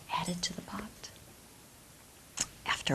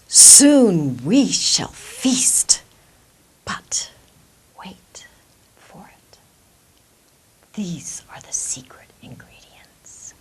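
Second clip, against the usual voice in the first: secretive hush; 13 dB louder, slower than usual. Acted. Immigrant teases the waiting crowd.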